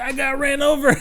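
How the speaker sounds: high, laughing through the words; laughing reply. Retold or imitated. Telling mom what happened, laughing. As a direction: giggle out the bad news. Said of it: "And I was like".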